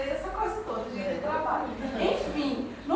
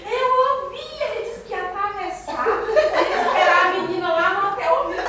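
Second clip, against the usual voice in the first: agitated insisting; 6 semitones higher, 8 dB louder than usual. Retold or imitated. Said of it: "Aí eu".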